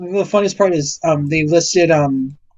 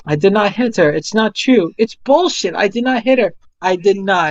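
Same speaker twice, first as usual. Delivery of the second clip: quoting Tommy; 2 semitones higher than usual. Retold or imitated. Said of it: "the most infamous scene where he's like".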